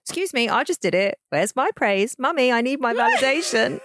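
put-on whiny, laughing childish complaint; petulant. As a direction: whine like a child for praise. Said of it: "I sounded so petulant".

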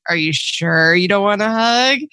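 slow, drawn-out playful question; teasing coaxing. Retold or imitated. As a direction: act out a mom teasing out a yes. Mother teasingly coaxing cross daughter.

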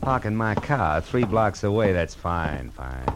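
low, dry muttering to himself; sour grumbling. Acted. Detective grumbling alone about dames, sour and low.

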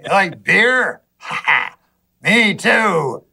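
hearty beer cheer; beer buddy voice. Retold or imitated. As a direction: play the friendly beer candidate. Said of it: "I'd go".

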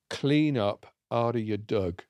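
slow, rural Findon dialect; lightly broad Findon accent. Shown as a demonstration. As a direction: read it out slowly in broad Findon speech. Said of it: "Now, that is Findon".

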